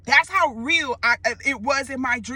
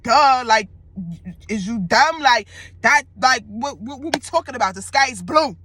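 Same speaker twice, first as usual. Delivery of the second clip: adamant; 4 dB louder than usual. Retold or imitated. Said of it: "that's how adamant that nigga was".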